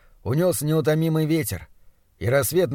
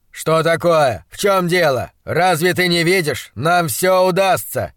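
higher, loud, emphatic questions; insistently optimistic monstrologist; 3 semitones higher, 5 dB louder than usual. Acted. Doctor to his staring assistant, insistently optimistic. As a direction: push your confidence on a doubtful listener.

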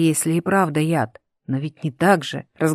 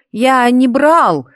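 desperate denial; 6 semitones higher, 7 dB louder, much slower than usual. A narrator's reading. Boy denying in desperation.

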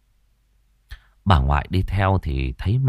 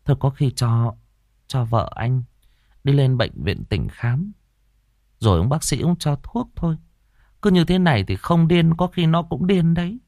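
grandmother's voice; 7 semitones higher than usual. Acted. Grandmother urges father.

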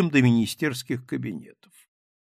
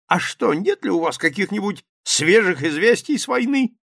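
high, loud bluff exclamation; exclaiming captain; 7 semitones higher, 6 dB louder than usual. A narrator's reading. Captain exclaims to the journalists, loud and high. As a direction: blurt it out like a brash officer. Rybnikov asks for war news.

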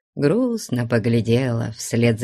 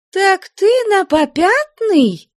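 high, loud, slow cry of dismay; indignant exclamation; 7 dB louder, slower than usual. Acted. Flyonushka jumps from her chair at Maryushka, high and loud. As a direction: leap up and cry out in disbelief. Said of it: "вскликнула Флёнушка".

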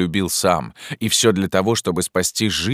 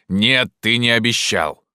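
higher, louder, slow and insistent denial; hot-tempered cry; 6 semitones higher, 3 dB louder than usual. A narrator's reading. Bug-Jargal hotly denies his friend's vow, higher and louder. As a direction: flare up and refuse it. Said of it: "вскричал он с запальчивостью".

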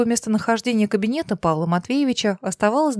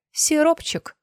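mock stern rebuke; 8 semitones higher, slower than usual. A narrator's reading. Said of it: "сурово заклеймила своего мужчину Лана".

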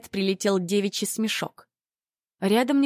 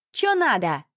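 shrill squeal; 5 semitones higher, slower than usual. Acted. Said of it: "взвизгнула крашеная".

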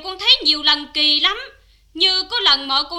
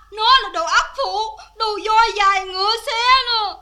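raised-pitch courtroom abuse; scolding insults; 3 semitones higher than usual. Acted. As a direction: hurl insults from the witness stand. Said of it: "không được mắng chửi ai".

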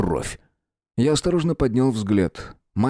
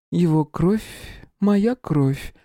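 musing princess; 8 semitones higher, much slower than usual. Acted. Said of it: "задумчиво протянула".

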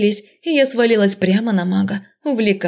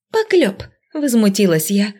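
ordinary delivery

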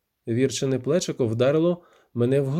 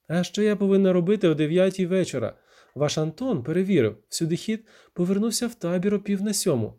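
indignant challenge; 5 semitones higher than usual. Acted. Віра доводить, що він бреше.

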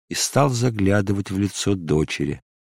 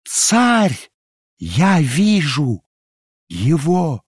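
much higher, slow, ecstatic cry; triumphant shout; 7 semitones higher, much slower than usual. Acted. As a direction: call out in rapture. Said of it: "закричала она торжествующе". (торжествующий возглас)

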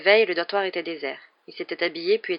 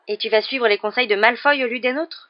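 raised, indignant questioning; 5 semitones higher, 7 dB louder than usual. A narrator's reading. Ron objecting to Harry following Malfoy's advice, indignant. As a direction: challenge it in disbelief, louder and higher. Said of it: "s'indigna Ron".

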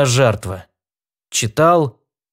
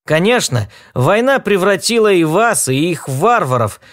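higher voice for a little talking rodent; small creature voice; 7 semitones higher than usual. Acted. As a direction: play a chatty tiny animal, pitched up. Spider speaking.

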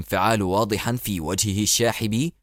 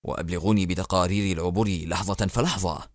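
sighing; 7 semitones lower, 4 dB quieter than usual. Acted. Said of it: "فتنهد الرئيس مرة أخرى وقال".

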